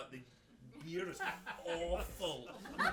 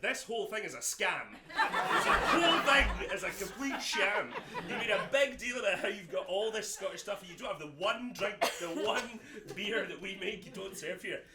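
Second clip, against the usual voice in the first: mock rage; 3 semitones higher, 5 dB louder than usual. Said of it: "I was never been so raging".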